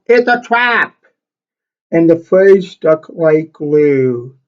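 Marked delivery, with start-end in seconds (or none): 0.1-0.9 sudden high yell of alarm; panicked admiral shouting a warning. Acted. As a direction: cry out the warning to the crew. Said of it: "so he yelled".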